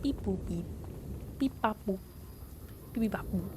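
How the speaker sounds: short robot-like beeps; playful beeping. Pretend. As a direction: imitate electronic bleeps idly. Idle beeping while clicking along.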